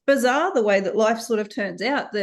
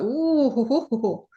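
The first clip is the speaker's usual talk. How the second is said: knowing chuckle. Retold or imitated. Doctor chuckling knowingly at the tired mother. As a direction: chuckle like you've seen this before.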